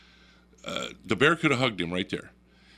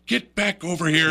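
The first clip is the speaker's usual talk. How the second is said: raised, higher mock yell of alarm; acted-out urgent holler; imitated wife calling; 7 semitones higher, 6 dB louder than usual. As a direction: call out like a worried wife. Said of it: "my wife's back there going".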